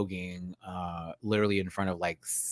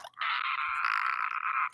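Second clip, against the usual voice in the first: scream; 12 semitones lower, 6 dB quieter than usual. Retold or imitated. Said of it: "I screamed".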